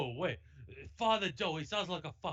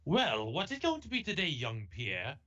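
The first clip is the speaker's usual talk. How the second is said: lightly voiced kindly priest, offhand; a hint of an old priest teacher; priest tutor. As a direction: play the tutor starting a lesson. Reads Father Joe.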